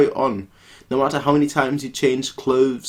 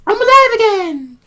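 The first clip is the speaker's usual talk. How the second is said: much higher, louder jubilant shout; triumphant cry; 8 dB louder than usual. Acted. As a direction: burst back to life shouting. Reviving in the ninja game.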